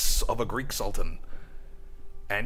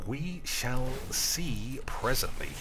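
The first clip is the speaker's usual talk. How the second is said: slow, quieter deadpan pronouncement; deadpan meme voice; 2 semitones higher, 5 dB quieter, slower than usual. Pretend. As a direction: intone it like a meme. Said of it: "being a classic meme voice".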